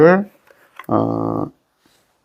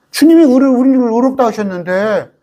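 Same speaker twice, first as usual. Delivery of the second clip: 주님이 cried out much higher and louder; fervent pulpit proclamation; preaching at full force; 7 semitones higher, 4 dB louder than usual. Acted. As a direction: proclaim it like a triumphant sermon climax. Preaching climax on the refrain.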